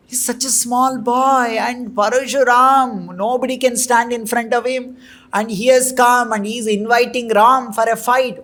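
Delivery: a frightened king pleading for his small son; scared pleading father. Acted. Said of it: "got scared by hearing all this".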